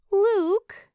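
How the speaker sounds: sharp high loud call; playful loud reproach; exclaiming. A narrator's reading. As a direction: scold him with his name. Julie scolding his joke.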